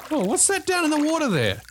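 echoey voice from a diving bell; inside a diving bell. Pretend. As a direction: sound like you're down in a metal bell.

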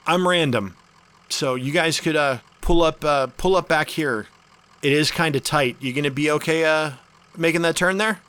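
friendly host waving you in; cheerful camp host. Acted. GM voices Random.

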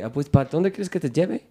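attempted Mexican cabbie accent. Shown as a demonstration. Taxi driver asks where to take him, imitated Mexican accent. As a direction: lightly put on a Mexican accent. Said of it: "la mejor versión del acento mexicano que yo sé".

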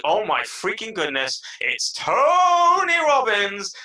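hammed-up arena-style star announcement; hyped-up awe. Fan hailing Tony Robbins on stage, mock awestruck shout. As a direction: build to a high, drawn-out shout. Voicing awe at a star's entrance.

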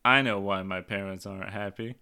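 low, glum mock confession; deadpan kid blaming herself; self-blaming child. Daughter blaming herself for the divorce, low glum voice. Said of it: "She says".

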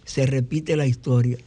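grand recital of song lyrics; poetry declamation. Shown as a demonstration. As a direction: recite it like a poem, measured and grand. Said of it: "pero voy a declamar".

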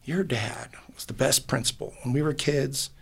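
soft unvoiced whisper. Real, not acted. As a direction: breathe it out in a hush. Retelling people praising dad.

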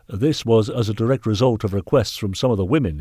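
lightly voiced, eager-to-please master; a touch of officious earnestness; workhouse master. Master reporting improvements to the knight, lightly officious.

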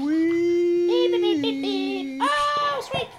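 very high squeaky little voice; dog's voice. Acted. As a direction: squeak like a tiny dog. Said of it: "we talk to her in that voice".

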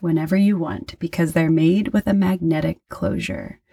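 measured host's sign-off with lifted phrase openings; podcast outro read. Acted. Host signs off to listeners with contact details and plugs, podcast outro read. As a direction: read out the show's closing announcements.

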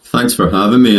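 flat, even monotone delivery. Real, not acted. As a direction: keep it level and flat. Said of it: "in my monotone voice".

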